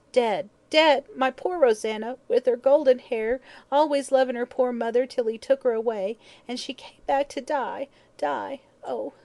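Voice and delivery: high, loud lament that dies away; tearful wail. A narrator's reading. Old woman mourning her daughter, melancholy wail. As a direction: wail in grief, fading on the last words. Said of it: "burst into tears".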